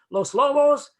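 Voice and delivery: high, loud surprised call down a hall; retold yell. Woman spotting the band backstage, retold yell. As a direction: imitate someone calling out from far off. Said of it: "she yells down the hall".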